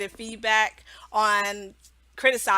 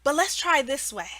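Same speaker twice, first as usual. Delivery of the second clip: much higher "Oh, okay, good job"; gentle cheery redirect; 7 semitones higher than usual. Shown as a demonstration. Teacher gently redirecting a child's mistake, high and bright. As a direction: encourage then redirect kindly. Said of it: "You say".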